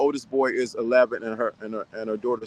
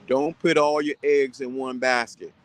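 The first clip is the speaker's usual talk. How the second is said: father's saying. Retold or imitated. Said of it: "like my mama would tell, my father would say it".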